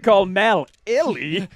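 "Mel Illy" split after the L; trying a pronunciation. Shown as a demonstration. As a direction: sound out "Mel Illy" as two names. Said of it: "how do you say that name".

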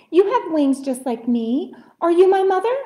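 high, loud eager chick; little bird crying out. A narrator's reading. Little bird hails a giraffe, crying out. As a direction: call out hopefully as a small bird. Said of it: "he cried".

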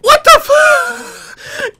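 drawn out very slowly, very high and loud; a long shrieked what the fuck; stunned shriek. Real, not acted. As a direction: utter disbelief at the screen. A sudden surprise in the game.

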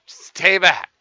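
loud, slow warning broken by laughs; laughing mock threat; laughing yell. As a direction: shout it while cracking up. Laughing while shouting warning.

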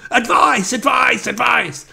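high, loud mock yelling; mock drowning cries. Playing a man drowning in a lake, high mock shouts. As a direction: cry out as if calling for help, played for laughs. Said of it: "drowning in a lake going".

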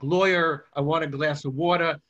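showing off the Brooklyn vowels on lawyer and water; Brooklyn accent. Shown as a demonstration. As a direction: let the old Brooklyn accent slip through. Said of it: "you can hear now when I say certain words like".

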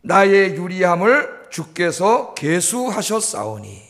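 reverent, very slow recitation; slow scripture reading. Shown as a demonstration. Preacher reciting David's psalm to the congregation, very slow and reverent. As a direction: draw out each word of David's prayer. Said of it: "다윗이 이런 기도를 합니다".

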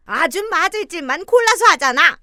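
loud cruel jab leaning on 골라서; hurt her with 골라서, loud and cold; sneering insult. Acted. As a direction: spit out 골라서 with contempt. Mother-in-law insults cruelly.

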